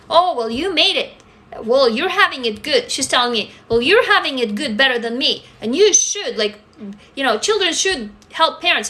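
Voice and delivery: lightly voiced demanding mom; nagging mom. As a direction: mimic a mother guilt-tripping her daughter. Mother demanding money, retold.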